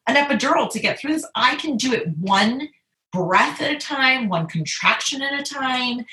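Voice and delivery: firm, emphatic self-talk, pitch a bit lifted; measured, insistent declaration; determination. Retold or imitated. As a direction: re-enact resolve, leaning on key words. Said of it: "just determination of".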